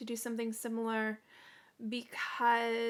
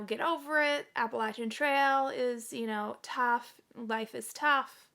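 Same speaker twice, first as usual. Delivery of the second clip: mildly mock dismissive, a bit louder; dismissive retort; 5 dB louder than usual. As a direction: imitate online commenters brushing off a complaint. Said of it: "dismissed my comment".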